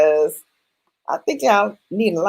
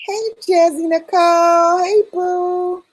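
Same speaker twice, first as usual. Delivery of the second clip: much higher, bright hello to a viewer; excited greeting; 12 semitones higher, 4 dB louder than usual. Real, not acted. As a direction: call out a happy hello to a friend. Greeting chat viewers warmly.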